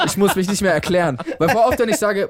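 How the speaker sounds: normal talking voice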